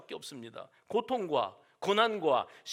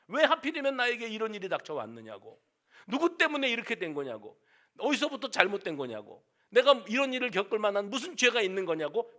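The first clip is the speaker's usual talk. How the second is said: mild mock anger; 3 semitones higher, 4 dB louder than usual. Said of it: "분노합니다".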